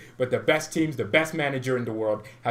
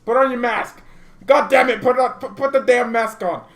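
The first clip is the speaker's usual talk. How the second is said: mock panic yell; 10 semitones higher, 8 dB louder than usual. Fan yelling at opponents to mask up, mock panic. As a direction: shout it higher and much louder, in mock alarm.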